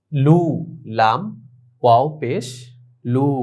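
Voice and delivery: লু with a drawn-out "oo"; long u vowel. Shown as a demonstration. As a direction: hold the "oo" long in লু. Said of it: "দীর্ঘকারের মতো উচ্চারণ". (লু-তে দীর্ঘ ঊ টেনে উচ্চারণ)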